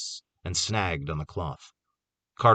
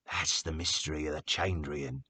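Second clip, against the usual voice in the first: explaining; 4 semitones lower, 8 dB quieter than usual. A narrator's reading. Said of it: "he explained".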